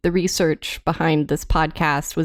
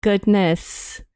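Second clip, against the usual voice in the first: mock British accent. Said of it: "I'm gonna stop the accent".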